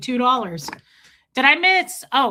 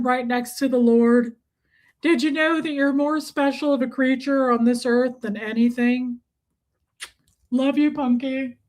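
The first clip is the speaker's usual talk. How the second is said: pet talk. Real, not acted. Baby talk to her pet.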